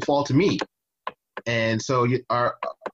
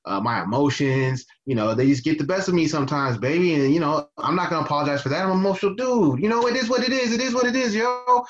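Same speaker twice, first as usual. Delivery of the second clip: mocking Yoho's apology. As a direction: play him off as a smug dude shrugging it off. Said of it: "his apology was basically that".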